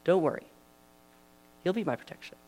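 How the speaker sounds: put-on a young shepherd sure of God, calming the king; David reassuring. David assures King Saul God will protect him, eager then calm. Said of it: "and he said".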